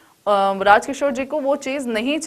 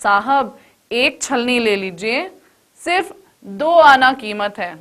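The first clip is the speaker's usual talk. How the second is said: polite soft plea. Shown as a demonstration. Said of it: "विनम्र स्वर, यानी कि बहुत सॉफ्टली".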